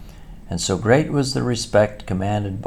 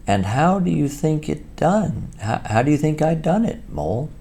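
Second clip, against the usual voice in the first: higher, cocky Toad voice; boastful Toad; 10 semitones higher than usual. Acted. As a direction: crow it like a show-off toad.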